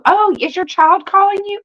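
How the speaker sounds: high-pitched, sweetly curious question; surprised caller. Acted. Caller mistakes the cat for a child, high questioning. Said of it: "they go".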